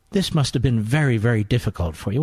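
lightly mocked sympathetic interviewer, pitched low; a hint of hushed mock sympathy; fawning TV interviewer. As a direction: gently feign deep concern, voice dropping. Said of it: "sixty Minutes interview like".

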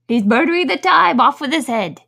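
loud, high royal bellow; bawling. Acted. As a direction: bawl it like a furious queen. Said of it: "bawled out".

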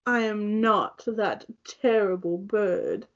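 lightly put-on character voice, drawn out; slow, deliberate protest, a light impression; Sebastian. Co-host playing the offended crab disowning the bird, lightly voiced impression. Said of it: "That's my best Sebastian impression".

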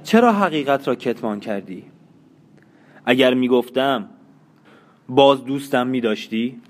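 wife bitterly accusing her husband, mild harshness; harshly. Acted. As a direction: press him with mild bitterness. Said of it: "با خشونت گفت".

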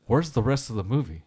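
imitated baffled complaint; retold indignation. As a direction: protest as if cheated of an ending. Stranger outraged at film's ending.

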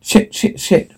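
frantic whispered swearing; voiceless, scared whispered swearing; panicked whisper. Acted. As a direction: whisper the curses in a rush of panic. Panicked, trapped, cursing.

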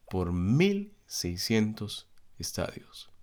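measured, emphatic Bible reading with weighty pauses; solemn Scripture reading. Acted. Preacher reading Revelation's harvest vision to the congregation, solemn reading. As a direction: read the passage out deliberately, stressing key words.

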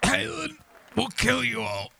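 high, strained last words; dying threat. Acted. Stabbed Killington twitching as he dies, high strained threat. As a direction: force out a high dying curse. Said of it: "He goes".

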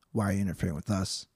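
brisk, quiet recap to yourself; quick recap. Real, not acted.

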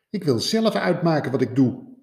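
put-on defiant young rabbit. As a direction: insist on your own way.

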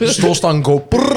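slow, giggling through the words; laughing. Real, not acted. Laughing at the crash story.

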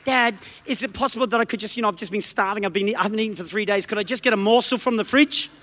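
a hint of a meek child begging dad; timid begging child. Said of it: "my daughters don't come in and say".

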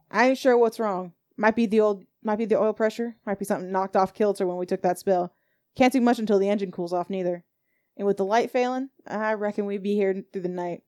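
put-on folksy old driver explaining the breakdown; Silas the coach driver.

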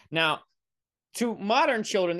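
ordinary talk, nothing marked

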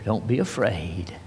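soft and low, lightly whispered; whispered comfort. Acted. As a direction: gently reassure in a near-whisper. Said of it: "he'll whisper".

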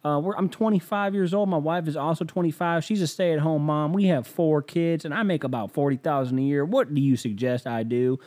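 lightly voiced earnest caller; hapless caller. Young father asking host for help, mildly sheepish. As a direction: lay out your troubles, pitched slightly up.

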